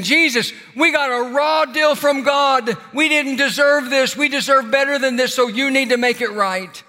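mock demand, pitched well up; indignant crying out. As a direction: imitate an aggrieved complaint to God. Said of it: "weren't crying out to Jesus and saying".

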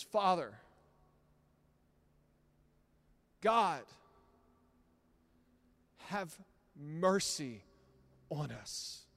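a halting, slowed plea with a loud start; mild shaky fear, dragged out; timid trembling prayer. Retold or imitated. A shy kid stands at the church microphone, timid. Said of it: "trembling, shaking".

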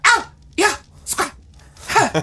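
yelping out short barks like a dingo; mock dingo barking. Imitating a dingo barking outside the house. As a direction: bark the words like a wild dog. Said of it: "That's barking in Australia".

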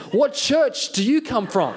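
cringing at yourself mid-sentence, through a laugh; awkward echo. Retold or imitated. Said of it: "And then I say to him".

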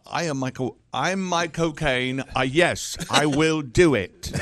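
slow Michael Caine answering machine; lightly voiced Michael Caine, slowed; Michael Caine impression. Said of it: "Michael Caine's answering machine".

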